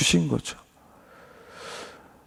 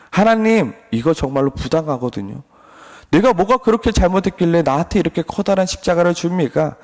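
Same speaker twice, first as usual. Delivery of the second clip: Job complaining; 2 semitones higher than usual. Acted. Job protests his cross to God, mock aggrieved complaint. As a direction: whine up at heaven like a wronged man. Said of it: "불평과 원망을 하고 있습니다".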